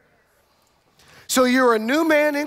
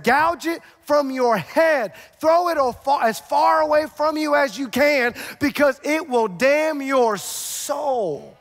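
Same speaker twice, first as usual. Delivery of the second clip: forceful command; 5 semitones higher, slower than usual. Acted. Preacher quoting Jesus forcefully.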